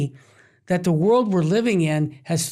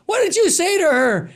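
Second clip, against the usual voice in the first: higher, louder mock waiter demanding; 11 semitones higher, 4 dB louder than usual. Waiter confronting the friend, raised and louder. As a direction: challenge him like a startled waiter. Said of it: "the waiter looks over and says".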